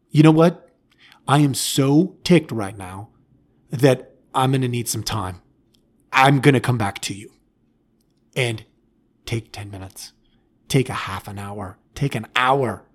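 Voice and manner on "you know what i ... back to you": calm parent. Shown as a demonstration. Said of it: "Step back and say".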